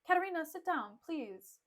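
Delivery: softening voice on a polite request; mock gentle. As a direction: lightly imitate a husband coaxing his bride. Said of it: "he's talking to her gently".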